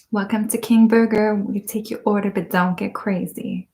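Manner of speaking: lightly voiced fast-food cashier with attitude; a hint of a sassy cashier; Bon Qui Qui impression. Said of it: "That's the one, right?".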